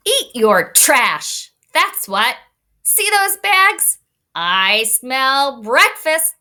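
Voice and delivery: slow, hungry truck reading, rising high on bags; garbage truck voice. Acted. Teacher reading the garbage truck's words to the class, in a slow hungry truck voice. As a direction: growl out each line like a hungry machine.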